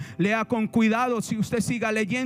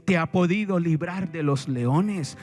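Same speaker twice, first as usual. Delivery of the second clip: slow, lower, mildly mournful call; sad king; 4 semitones lower, slower than usual. Acted. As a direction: read the king's plea slowly, with understated sorrow. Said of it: "con voz triste viene y le dice".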